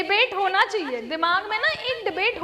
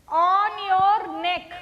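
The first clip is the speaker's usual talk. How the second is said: drawn-out instruction; much slower than usual. Shown as a demonstration. Teacher guiding the class hand to the neck, slow and drawn out. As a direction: stretch "on your neck" very slowly, word by word. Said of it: "neck बोल रही हूँ".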